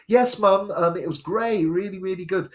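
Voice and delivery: put-on a teen selling his festival to mum; eager son. Son reassuring mum on phone.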